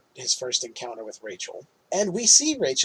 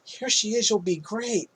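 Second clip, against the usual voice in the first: high, soft singsong introduction; mock-sweet matchmaker; imitated matchmaking therapist; 6 semitones higher, 4 dB quieter than usual. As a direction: present someone in a put-on higher voice. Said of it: "She's like".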